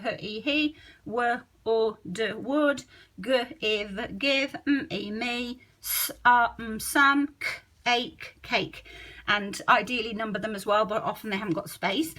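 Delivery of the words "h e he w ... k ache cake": sounds then word, quietly; child segmenting each word; code mapping. Retold or imitated. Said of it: "they'd go".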